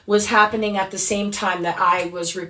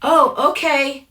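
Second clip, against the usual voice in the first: apologetic stranger; 5 semitones higher, 3 dB louder than usual. Retold or imitated. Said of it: "And he says".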